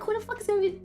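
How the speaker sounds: mock panic. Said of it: "I was freaking out".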